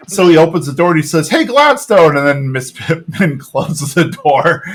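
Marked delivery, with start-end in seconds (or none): 1.3-2.2 loud, high call across the office. Retold or imitated. Dale calling Gladstone into the office, loud call. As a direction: hail him from the doorway. Dale calls out through door.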